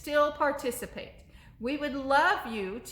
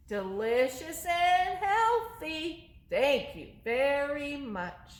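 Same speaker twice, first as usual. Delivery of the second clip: higher, slow sweet little monster voice; monster puppet voice; 3 semitones higher, much slower than usual. Acted. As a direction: answer as the polite little monster. Monster answers.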